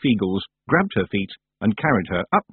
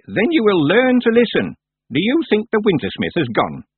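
put-on stern old witch; 12 semitones higher, 4 dB louder than usual. Miss Treason stern.

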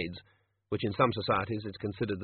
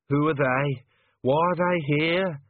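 loud, raised frantic asking; panicked questions; 6 semitones higher, 6 dB louder, slower than usual. Acted. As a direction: demand it in alarm.

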